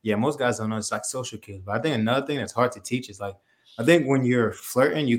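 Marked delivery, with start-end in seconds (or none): none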